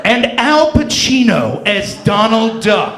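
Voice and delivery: slow trailer voice; 电影预告片旁白; trailer announcer. Pretend. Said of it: "go a little something like this".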